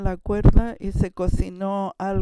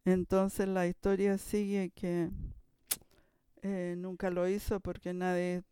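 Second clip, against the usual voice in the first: hushed; 10 dB quieter than usual. Real, not acted. Hushed follow-up to the climax.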